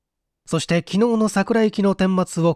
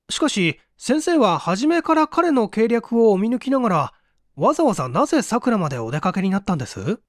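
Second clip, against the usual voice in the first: put-on eager young assistant; 5 semitones higher than usual. Young assistant asks the doctor.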